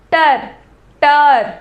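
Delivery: "टर" alone, drawn out each time; syllable sounded out. Shown as a demonstration. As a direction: say "टर" as a separate, stretched syllable. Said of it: "खुद बोल के देखो". ("टर" अलग से, खींचकर)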